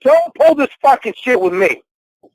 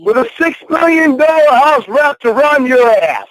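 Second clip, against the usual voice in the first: higher, furious yell; angry yelling; 6 semitones higher than usual. Real, not acted. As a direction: shout it in her face. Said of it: "You're yelling at me".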